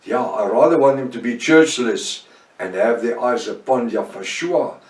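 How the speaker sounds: ordinary delivery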